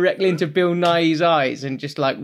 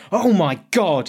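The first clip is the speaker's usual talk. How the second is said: retold gasp; 4 semitones higher, 4 dB louder than usual. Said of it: "just froze and stopped and went".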